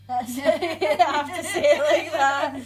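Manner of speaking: giggling while talking; laughing. Real, not acted. Laughing at her own voice.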